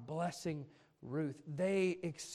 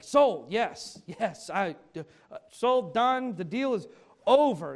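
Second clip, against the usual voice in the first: loud, high, excited acted deal-closing; eager acceptance; 3 semitones higher, 7 dB louder, slower than usual. Car seller grabbing a better offer, eagerly excited. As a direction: jump on the offer, punching out each word.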